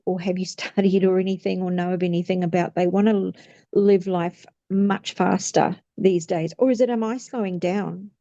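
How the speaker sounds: breathless, running out of air; talking till the breath runs out. Real, not acted. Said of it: "I ran out of breath there".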